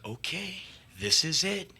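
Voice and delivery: soft, slow whisper of resolve; menacing hushed whisper; whispered threat. Retold or imitated. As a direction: hiss the vow to yourself. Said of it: "I'm like".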